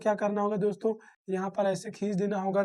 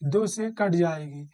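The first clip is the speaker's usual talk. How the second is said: slow emphasis; 3 semitones lower, slower than usual. Shown as a demonstration. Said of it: "restates the rule for pupils".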